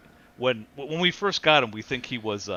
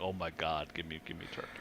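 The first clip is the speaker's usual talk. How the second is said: mock whining dog; 7 semitones lower, 12 dB quieter than usual. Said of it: "he's, like, crying".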